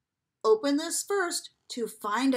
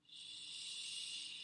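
shushing; 17 dB quieter than usual. Acted. Book says shh.

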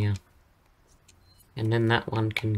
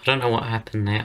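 scratchy, worn-out voice; talking with a lost voice; hoarse voice. Real, not acted. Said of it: "my voice is kind of gone".

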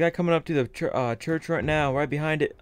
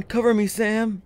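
cover me shout; 6 semitones higher, 3 dB louder than usual. Real, not acted. About to run under fire.

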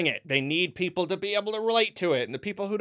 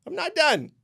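higher, said through a laugh; 9 semitones higher than usual. Real, not acted. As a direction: laugh it off while insisting. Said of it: "I ain't done".

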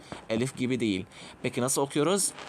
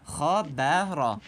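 slow model reading; much slower than usual. Shown as a demonstration. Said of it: "Bakıyoruz nokta nerede ve kaç nokta?".

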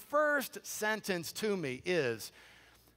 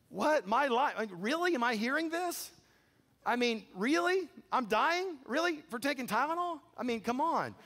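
incredulous; 5 semitones higher than usual. Retold or imitated. Disbelief at being told dying.

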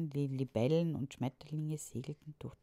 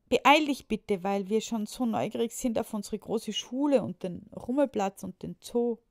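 higher, louder impatient plea; eager child; 6 semitones higher, 9 dB louder than usual. A narrator's reading. Julius urges his father to hurry, eager. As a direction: urge him on, bursting with curiosity. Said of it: "rief Julius".

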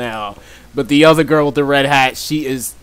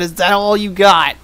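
"Is that all you got?" said again a little higher and louder, landing on "got"; repeated taunt; 4 semitones higher, 3 dB louder than usual. Retold or imitated. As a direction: throw the taunt back harder. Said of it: "I said".

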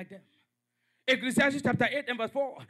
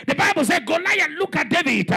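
preaching at full force. Real, not acted. Pastor rousing the congregation, fervent preaching. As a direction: preach it to the back row.

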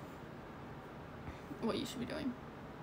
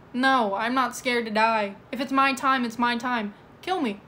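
defiant challenge. Pretend. Defiant retort to armed threatener.

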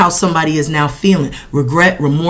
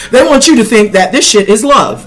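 laughing; 7 semitones higher, 4 dB louder than usual. Real, not acted. Laughing at deceivers.

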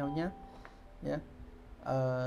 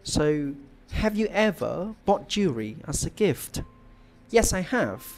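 slow, louder, clearly paced sample answer; model speaking answer; 7 dB louder, slower than usual. Shown as a demonstration. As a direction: read it out slowly and loudly like an exam model answer. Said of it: "thầy sẽ thử trả lời lại mọi người nhé".

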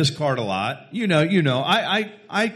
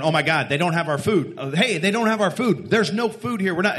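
imitated panic; 2 semitones higher than usual. Customers on their phones about missing food, mock panic. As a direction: imitate customers in rising alarm. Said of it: "all these people panicking over their Thanksgiving".

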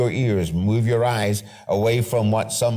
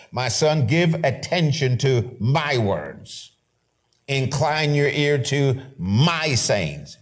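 slow, deliberate scripture read; solemn preacher reading the verse; 3 semitones higher, slower than usual. Acted. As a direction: read each word of the verse slowly.

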